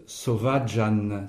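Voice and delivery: "sovaĝan" slowly, ĝ sounded as dj; G circumflex sound. Shown as a demonstration. Teacher approving the reader's sound, clear G circumflex. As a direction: pronounce the ĝ of "sovaĝan" as dj. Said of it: "le G chapeau de".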